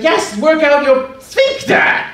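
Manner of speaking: high, slow, excited mock yell; mom yelling. Mom chiming in at the restaurant with a high, excited yell. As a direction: belt it out like an eager mom. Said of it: "She's like".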